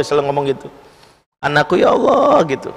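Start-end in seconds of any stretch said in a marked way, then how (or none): 1.4-2.5 high, tearful cry to God; mother crying out. Retold or imitated. Preacher voices the grieving mother, high tearful cry. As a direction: let the mother's grief rise up high. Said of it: "ibunya itu nangis gitu".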